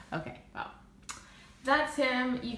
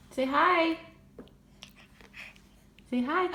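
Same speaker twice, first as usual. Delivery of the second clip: high coaxing; 8 semitones higher than usual. Real, not acted. Mom asking her son to say hi, high sing-song.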